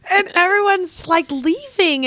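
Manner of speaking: fighting back real tears while explaining the last chapter; tearful. Real, not acted. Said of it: "probably cried harder than anywhere else".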